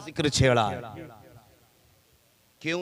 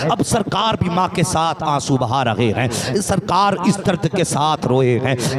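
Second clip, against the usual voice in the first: steady, declaimed devotional narration; sermon storytelling; 5 dB louder than usual. Acted. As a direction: tell the sacred story as a preacher to a congregation. Preacher narrates sacred story.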